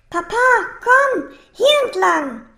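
high, loud call to papa; high-pitched child's urging shout. A narrator's reading. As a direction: call papa along, drawing out the words. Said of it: "rief Safir".

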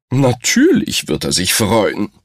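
snorting. Acted. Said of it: "schnaubte Sunny".

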